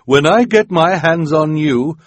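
high, loud, building threat; angry threat. A narrator's reading. Esme threatening the children, angry threat. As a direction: threaten them at full voice.

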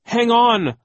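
high loud desperate shout; desperate call. A narrator's reading. Klaus struggling with the car door, desperate shout. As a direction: call out with all your strength. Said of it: "Klaus called desperately".

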